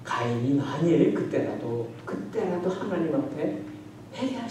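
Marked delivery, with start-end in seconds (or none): none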